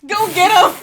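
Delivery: cracking up mid-phrase; laughing. Real, not acted. Laughing repeat of joke.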